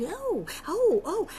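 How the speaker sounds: high, wide-eyed little ohs; mock wonder. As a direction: voice leaps up as if being won over. Acts out character buying the pitch.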